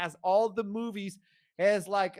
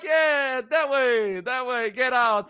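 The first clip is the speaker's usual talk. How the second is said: raised, loud mock commands; ordering guard; 9 semitones higher, 5 dB louder, slower than usual. Armed guard waves passenger out, mock shouting. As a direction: imitate a guard shouting directions.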